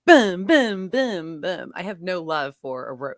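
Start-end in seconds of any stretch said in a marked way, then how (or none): 0.1-1.7 punchy thuds, loud first then dropping; rapid mock blows that tail off; imitated whacks. Acting out killing a roach, punchy imitated whacks. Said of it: "cursing and just, like".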